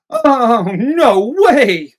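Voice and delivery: high, loud hammed-up amazement; mock excitement. Imagining the biologist geeked over a new species, mock excitement. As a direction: squeal it out as if geeked.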